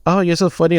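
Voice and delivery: put-on "you're so funny" voice; fake amusement. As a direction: imitate someone humoring a bad joke. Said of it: "had to do the fake".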